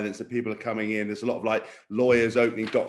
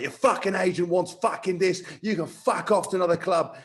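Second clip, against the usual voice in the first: mild mock shouting, pitched up; higher-pitched retold telling-off; retold angry rant; 5 semitones higher than usual. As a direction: imitate an irate coach without really shouting. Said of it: "really shouted at me was Warren Gatland".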